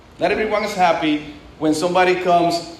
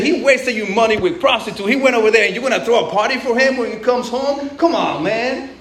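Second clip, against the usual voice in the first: higher, aggrieved protest voice; indignant older brother; 4 semitones higher than usual. Acted. The older brother protesting to his father, indignant and higher. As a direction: complain like the left-out son.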